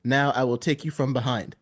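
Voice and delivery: put-on lightly French-accented English, low and understated. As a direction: quote a French director with a touch of his accent. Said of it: "you know, he's French".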